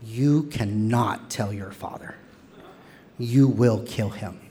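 slow, weighty, measured warning; imitated grave warning. Mom warning gay son about telling dad, slow and grave. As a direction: lay down each word slowly, as a mother forbidding it. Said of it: "She gets really quiet".

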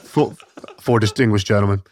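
lightly deepened impersonation. Retold or imitated. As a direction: drop the pitch for a big man's voice. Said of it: "We gotta go lower".

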